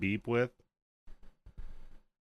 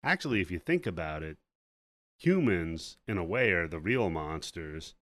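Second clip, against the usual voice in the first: lower-pitched pondering, measured pauses; mock philosophical dad; 4 semitones lower than usual. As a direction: lightly play a dad waxing philosophical. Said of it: "gets all philosophical on him real quick".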